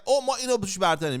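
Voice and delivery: mock superior chant; mocking sing-song. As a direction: sing it like a smug American. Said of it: "که بگن".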